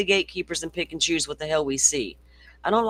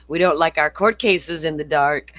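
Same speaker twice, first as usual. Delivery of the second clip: laughing through the line, a bit louder; 3 semitones higher, 4 dB louder than usual. Real, not acted. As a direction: chuckle while saying it, stress on court. Laughing while repeating her point.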